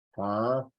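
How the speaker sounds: "camión" split slowly into ca, mi, ón; syllables separated. Shown as a demonstration. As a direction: pause between the syllables of "camión", lengthening the last. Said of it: "ahí lleva tilde".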